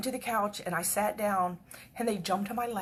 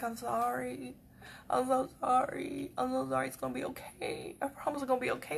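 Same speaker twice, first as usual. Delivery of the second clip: soft, slightly raised pleading; tearful apology; 3 semitones higher, 7 dB quieter than usual. Retold or imitated. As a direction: apologize gently, as if near tears. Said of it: "I'm gonna cry".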